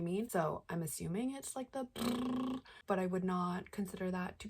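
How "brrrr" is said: lip trill drum roll. Shown as a demonstration. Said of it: "exaggerated drum roll noise with his lips".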